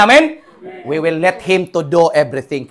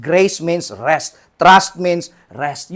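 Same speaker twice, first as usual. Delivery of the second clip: each word slow and deliberate; slow slogan; much slower than usual. Real, not acted. Preacher drills the motto into the church, slowly.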